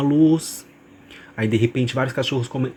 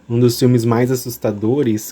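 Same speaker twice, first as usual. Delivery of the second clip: velvety narrator voice; slower than usual. Acted. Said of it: "minha voz aveludada".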